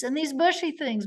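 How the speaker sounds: walk the witness along in small, punchy steps; Vinny. Retold or imitated. Lawyer stepping a witness through photos, lightly imitated cross-examiner. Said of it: "the way Vinny did".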